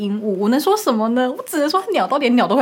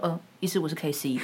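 quiet name drop; 5 semitones lower, 6 dB quieter than usual. Retold or imitated. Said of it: "他说".

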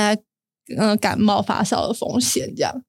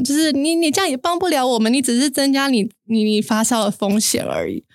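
pitched way up, yelling 你到底在干嘛 at him in a rage; furious yelling; 2 semitones higher than usual. Retold or imitated. Daughter yelling at her dad standing in the rain, enraged. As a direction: blow up at him on the street. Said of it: "我就在街上飙骂他".

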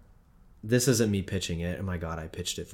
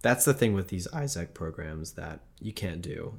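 voice giving out. Real, not acted. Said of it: "I'm losing my voice completely".

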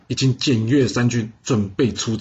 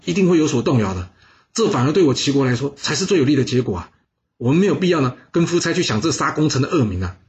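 higher, eager persuading adviser; earnest counsellor; 4 semitones higher than usual. Acted. Bao Xi persuading the duke to free Wu Zixu, higher earnest pleading. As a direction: argue the case to save a loyal man.

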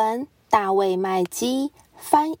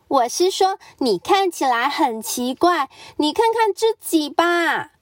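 high, quick and curious; chattering Mrs Duck; 6 semitones higher than usual. Acted. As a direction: rattle off the question. Duck insists.

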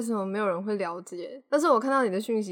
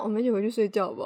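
pleading; faster than usual. Retold or imitated. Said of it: "都在那边跪啊".

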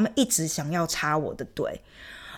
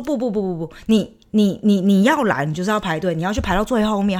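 louder, insistent scolding of a line cutter; retold angry scolding; 3 dB louder than usual. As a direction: tell her off, firm and loud. Retold quarrel with queue jumper. (对插队的土耳其少女大声斥责)

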